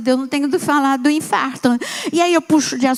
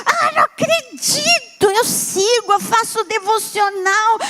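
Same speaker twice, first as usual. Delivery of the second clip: high, delighted squeal of a fan; thrilled fan; 8 semitones higher than usual. Retold or imitated. Phone attendant discovers the caller's sister is Naira, squealing with delight. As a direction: gush like a fan meeting her idol. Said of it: "Ele falou, "É minha irmã".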